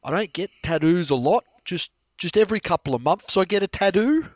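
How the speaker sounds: high, loud imitation of the whining girl; mock bawling. Mocking the Bali girl's line for his friends, mock bawling. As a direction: repeat her line in a hammed-up wail, lifting the end. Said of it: "It's like".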